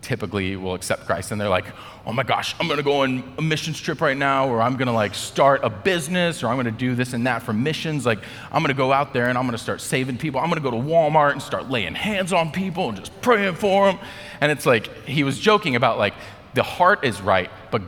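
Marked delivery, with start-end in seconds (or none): 2.1-14.0 high, gushing over-eager voice; eager young Christian. Acted. New believer announcing grand mission plans, over-excited. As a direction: race on with naive, mock zeal. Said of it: "really young Christians who".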